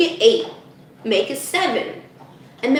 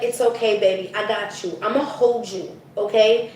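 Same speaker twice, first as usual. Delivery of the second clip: soothing; 2 semitones lower than usual. Acted. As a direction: comfort it like a child. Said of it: "It needs to just be like".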